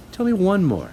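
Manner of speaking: put-on high, eager child voice; little girl voice. A narrator's reading. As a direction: play a bright little girl. Matilda voiced in story.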